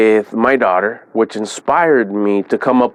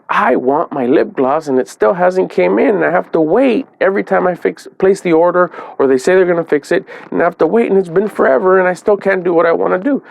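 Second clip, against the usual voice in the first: imitating his daughter's higher, whiny complaint; frustrated daughter venting; 7 semitones higher than usual. Father mimics daughter venting over lost lip gloss, mock whiny. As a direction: pitch it up and let the frustration spill out.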